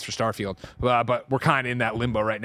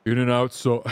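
Paris voice. Retold or imitated. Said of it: "Do it again".

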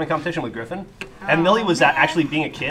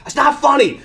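put-on high, louder indignant child; upset kid; 12 semitones higher, 6 dB louder than usual. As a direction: play the hurt, offended little girl. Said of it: "And she's like".

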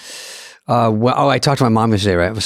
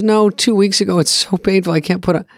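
imitating mom; 7 semitones higher than usual. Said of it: "And she goes".

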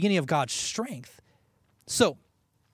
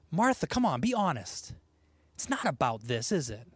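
gentle coaxing; 3 semitones lower, 5 dB quieter than usual. Retold or imitated. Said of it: "Jesus gently confronting Martha".

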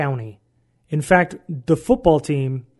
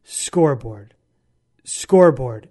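"Scoreboard" mock-yelled twice, lower, in a Vietnamese accent; accented coach yell; 4 semitones lower, slower than usual. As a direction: imitate the coach celebrating in his accent. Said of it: "he's screaming".

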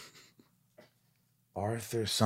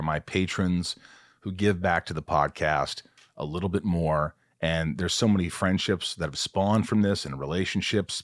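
easy, friendly sponsor read. Acted. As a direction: sell the Patreon warmly. Podcast ad read.

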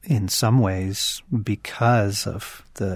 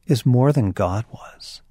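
poem recitation; slower than usual. Shown as a demonstration. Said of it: "he has this wonderful line where he says".

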